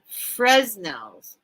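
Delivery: "Fresnels" with the S voiced like a z; S pronounced. Real, not acted. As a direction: say "Fresnels" sounding the middle S. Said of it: "you don't say the S".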